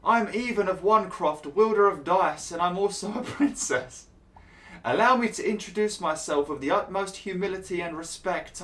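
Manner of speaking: exaggerated noble lady addressing a duke; mock posh lady. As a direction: grovel grandly to royalty, tongue in cheek. Reading dialogue options in held voice.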